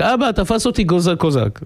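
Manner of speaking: mild retold call for Dad; mock child's cry. Son caught by a Cossack calls father, mock cry. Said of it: "הוא שומע את הילד צועק".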